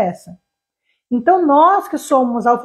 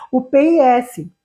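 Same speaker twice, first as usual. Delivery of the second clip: slow spelling; slower than usual. Shown as a demonstration. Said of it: "tinha que escrever assim".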